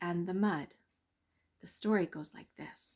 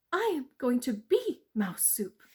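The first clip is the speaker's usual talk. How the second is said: high little mouse voice, worried; 5 semitones higher, 5 dB louder than usual. Acted. Mouse in the weasel's grip, high and anxious. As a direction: squeak it out like a doomed mouse.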